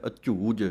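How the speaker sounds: ਅਝੂਜ with a tight, heavy ਝ; ਅਝੂਜ, both ਝ sounds held firm and aspirated. Shown as a demonstration. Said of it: "ਜਿੰਨਾ ਕੱਸ ਕੇ ਬੋਲੋਗੇ".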